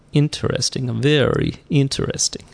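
slow mock Russian accent musing. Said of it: "I lapsed into my Russian accent".

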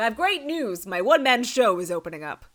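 high, loud showman's announcement; mock-grand actor's good news; gleeful retelling. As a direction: proclaim it high and proud, imitating him. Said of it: "And he's like".

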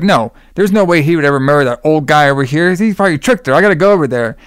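mildly agitated retold protest; mock freaking out. Bruce learns of the wedding, mildly freaking out. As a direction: imitate someone getting worked up. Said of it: "He's, like, freaking out".

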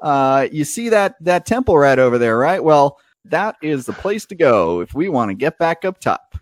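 lightly voiced driver explains the way; folksy driver. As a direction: point out the temple eagerly. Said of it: "he's like".

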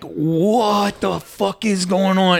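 slow, incredulous retort; mock disbelief. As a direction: imitate a stunned reaction, stretching the words. Acted shocked reaction of the party.

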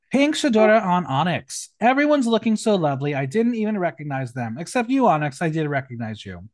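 lively, projected read-out of a roast; performed drag-roast reading. Acted. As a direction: announce the name, then deliver the jibe. Reads out contestants' roast jokes.

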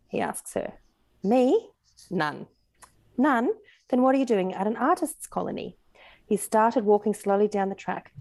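measured audiobook reading with lightly lifted dialogue; story narration. A narrator's reading. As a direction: read the story aloud, lifting the characters' questions in pitch. Reads a story aloud.

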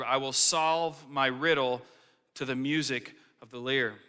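scripture reading. Acted. Pastor reads the psalm to the church, measured and solemn. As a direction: read it like holy text.

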